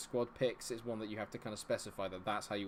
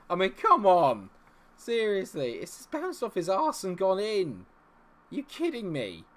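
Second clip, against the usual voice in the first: high, loud disbelief; exasperated outburst; 9 semitones higher, 10 dB louder than usual. Real, not acted. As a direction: protest the fluky goal, stretching the words. Outraged at conceding a goal.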